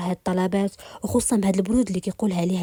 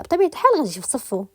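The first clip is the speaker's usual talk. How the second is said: higher, sarcastic jab; mocking; 5 semitones higher than usual. Rimas mocking Malik's defense of Mister Arslan, sarcastic. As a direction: sneer it lightly. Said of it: "بقات ريماس في الاستهزاء".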